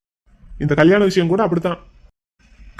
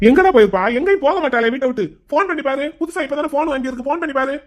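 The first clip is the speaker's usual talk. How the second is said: higher-pitched, anxious urging; agitated worry; 5 semitones higher than usual. Acted. Father orders a call to missing daughter, agitated. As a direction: fret and press for action.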